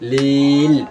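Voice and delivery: "লিল" as one long syllable closing on L; closed stop ending. Shown as a demonstration. Teacher showing students the stop rule, closed final lam. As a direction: sound the final lam in "লিল", no vowel after it. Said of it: "লাস্টে লামের উচ্চারণ হবো".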